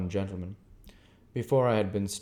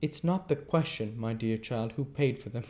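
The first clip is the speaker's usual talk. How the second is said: prim lady; 4 semitones higher than usual. Acted. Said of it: "returned Camilla".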